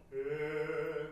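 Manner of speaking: えー held as one clear, pure "e" vowel; clear sustained vowel. Shown as a demonstration. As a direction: sustain えー so the "e" is unmistakable. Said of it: "って聞こえなきゃいけない".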